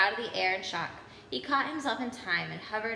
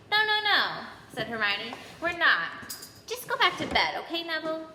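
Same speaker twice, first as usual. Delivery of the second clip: high, loud flustered denial; 7 semitones higher, 3 dB louder than usual. Acted. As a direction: hurry to cover the lie. Hermione denies, flustered.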